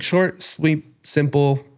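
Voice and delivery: short, sweet and simple, lifted pitch; neutral, kind voice. Shown as a demonstration. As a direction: demonstrate a kind, even tone. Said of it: "like, in this voice".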